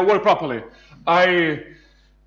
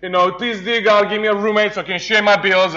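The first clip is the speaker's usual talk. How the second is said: simple prayer. Retold or imitated. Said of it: "I had these simple prayers".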